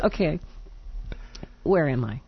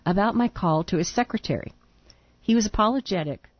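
reading a letter aloud. Real, not acted.

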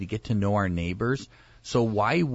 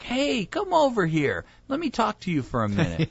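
reckless hailing; 10 semitones higher than usual. Pretend. Front-yard neighbor hailing a passerby to talk, reckless. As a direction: call out high across a yard, easing down. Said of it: "be reckless in a way".

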